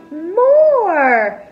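high, loud eager exclamation; eager cry. Acted. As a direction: burst out with the word.

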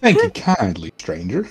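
put-on drawling Old West townsfolk accent; Western accent. Game character thanks the stranger in Western accent. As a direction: play the grateful sheriff in a cowboy accent. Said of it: "At least he's bringing the accent!".

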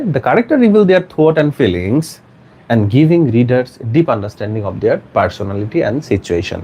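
slow, measured teacher's dictation. Shown as a demonstration. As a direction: read it out slowly for students to write. Teacher rereading the whole sentence. (ধীরে ধীরে শ্রুতলিপি)

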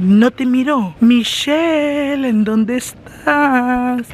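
playful searching holler, stretched out; mock calling out. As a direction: call out slowly for someone you can't spot.

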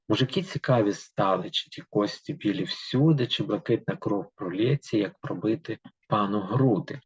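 steady, rhythmic reading of verse; poem reading. Acted. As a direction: read the fairy tale in verse to the class. Reads the poem aloud. (читання вірша вголос)

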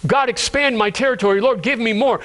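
grasping request, lightly acted; greedy prayer. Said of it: "praying a greedy prayer".

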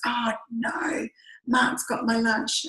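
whispered, slowing on the last words; retold whisper. Cheryl realising her husband has her lunch, whispered dismay. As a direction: hush it like a dismayed aside.

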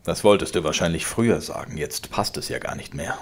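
laut drohender alter Vater, höher und lauter; zorniger Vater. Acted. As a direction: schleudere ihm die Worte herrisch entgegen. Vater spottet. (der Vater droht dem Sohn, laut und herrisch)

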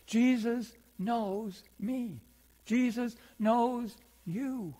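very slow, deliberate assurance; slow, sincere reassurance; reassuring. Acted. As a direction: lay each word down to comfort them. Reassuring the congregation.

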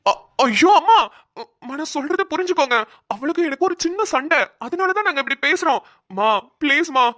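whiny plea. Acted.

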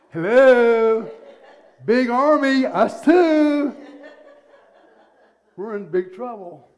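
loud, high, laughing alarm; frantic servant. Acted. Servant waves at Elisha's eyes in laughing panic. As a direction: wave your hands and yelp in alarm. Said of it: "imagine the servant's reaction".

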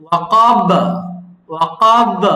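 ওয়াকাব with a strong bouncing final ব; ওয়াকাব, firm end-of-verse qalqala; hard qalqala. Shown as a demonstration. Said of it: "একটু hardly বলতে হবে".

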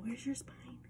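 soft whispered question. Shown as a demonstration. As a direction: whisper it to the child. Teacher whispering question to child.

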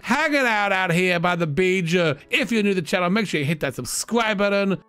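high, pumped YouTuber hype; hyped vlogger. Acted. Character vlogging from the beach shack, high and hyped. Mock YouTube channel outro.

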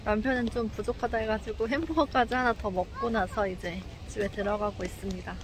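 muffled behind mask; speaking masked outdoors; through a face mask. Real, not acted. Seen 3: Speaker wears white face mask over mouth throughout the walk.

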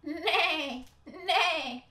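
high whinnied nay, nay; whinnying horse. Acted. Horse refuses the hen's plan, whinnying. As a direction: neigh the words like a horse. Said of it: "whinnied the horse".

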